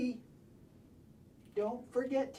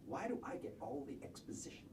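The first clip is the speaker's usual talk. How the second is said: muttering; 8 semitones lower, 11 dB quieter, faster than usual. Real, not acted. Muttered complaint.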